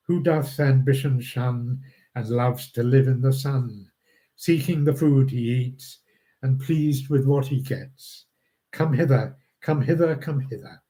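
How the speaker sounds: measured reading of verse, phrase by phrase; understated recital of Shakespeare verse; poem recitation. Acted. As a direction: read the poem aloud, pausing at each line end. Reads a poem aloud.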